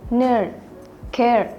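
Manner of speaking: "nerd" and "care" with a long open E like in jahe; Dutch long E. Shown as a demonstration. Presenter demonstrating Dutch long vowels, open drawn-out E. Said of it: "misalnya kata seperti".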